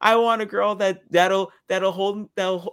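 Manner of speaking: mock a needy suitor, slowing on the wish; lightly mocking impression of a pining man; Cole. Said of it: "That's what Cole sounded like".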